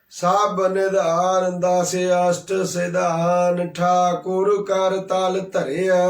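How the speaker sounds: slow, drawn-out intoning of the verse; measured devotional recitation; scripture recitation. Acted. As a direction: draw each word out reverently like a recited hymn line. Preacher quotes scripture verse.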